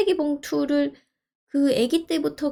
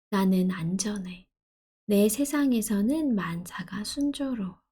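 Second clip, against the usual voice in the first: affirmation reading; 3 semitones lower, slower than usual. Acted. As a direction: read it like a calming mantra. Reads affirmations aloud.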